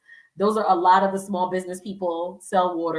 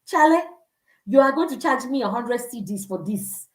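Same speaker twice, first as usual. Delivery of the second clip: higher, knowing mock scoff; calling out the vendor; 4 semitones higher than usual. Tourist scoffing at a vendor's inflated price. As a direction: push back like a savvy local. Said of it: "I'm like".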